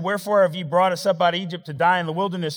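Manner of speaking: high, fast, loud whining Wherefore; griping people shouting at Moses; loud complaining whine. Acted. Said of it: "look what he said".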